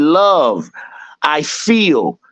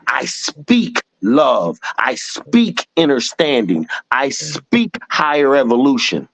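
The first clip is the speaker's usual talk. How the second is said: meditation mantra. Shown as a demonstration. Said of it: "this is what I say to myself when I'm in my meditation".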